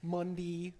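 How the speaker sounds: lightly put-on Pittsburgh accent mocking a friend. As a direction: say the weekdays the way a Pittsburgher does, teasing. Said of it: "make fun of this motherfucker for the way he talked".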